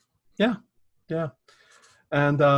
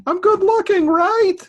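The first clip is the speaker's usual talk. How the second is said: loud and much higher; yelling to his wife in another room, high and loud; 8 dB louder, slower than usual. Retold or imitated. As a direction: call out across the house. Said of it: "I yelled at my wife".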